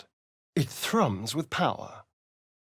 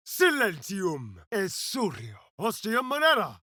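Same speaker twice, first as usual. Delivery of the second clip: spell incantation; 6 semitones higher than usual. Acted. Casting spells aloud.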